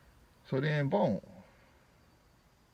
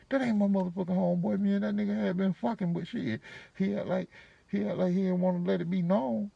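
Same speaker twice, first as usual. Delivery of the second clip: woman's voice; 10 semitones higher than usual. Retold or imitated. Voicing Shell on the phone.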